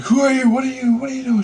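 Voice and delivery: very high, loud retold questions; bewildered questioning. Teller questions lady of light, loud high bewilderment. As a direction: blurt out stumbling, amazed questions.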